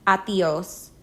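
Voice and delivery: Adios in two syllables, stress on -dios. Shown as a demonstration. Teacher models Adios for friends, stress on last syllable. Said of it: "two syllables with the stress on the second".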